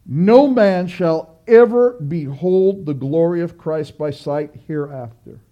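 slow repeated quote. Shown as a demonstration. Preacher rereading the Owen quote slowly to the congregation. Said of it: "Let me say that again".

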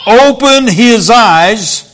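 slow, earnest prayer; praying. Retold or imitated. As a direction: plead gently with God, taking your time. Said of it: "And Elisha prayed".

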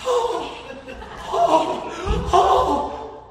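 high, laughing mock whimper. Preacher mocking Christians who cower before the world, mock whimpering.

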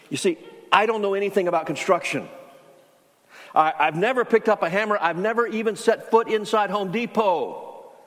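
exasperated, pleading with Mark; frustrated protest. Retold or imitated. Retelling the objection, more frustrated.

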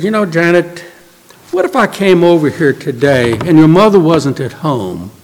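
composed, measured answer to someone upset; calm. Retold or imitated. Visitor calmly answering angry Janet with a what-if. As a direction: calmly pose a hypothetical. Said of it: "So I just calmly said".

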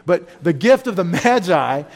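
preacher choked up telling the story to his congregation, voice catching. Real, not acted. Pastor moved by O. Henry's story, fighting back tears. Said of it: "I'm sorry I get choked up about it".

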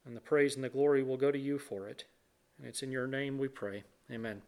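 reverent prayer with long pauses between phrases; public prayer. Real, not acted. Leads the congregation in prayer.

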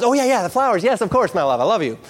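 high, hurried cover-up; flustered husband. Acted. Husband covering for forgotten automated flowers, high and flustered.

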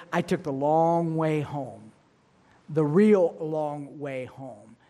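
slow, stretched words for emphasis; drawn-out telling. Real, not acted. Storyteller confessing his detour from the bully, slowly drawn out. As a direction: draw out the long route.

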